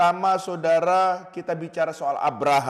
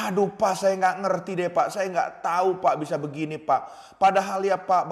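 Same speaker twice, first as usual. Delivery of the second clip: a father lost for answers, pleading helplessly; panicked father; 2 semitones higher than usual. Retold or imitated. Father telling the pastor his son's drug use, a touch of panic. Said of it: "Bapaknya ini nggak kalah ternyata, panik".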